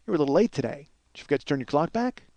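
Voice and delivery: soft, tentative retold question; low-key, hesitant approach; awkward small talk. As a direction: quietly venture an awkward opener. Hesitant small talk to his crush.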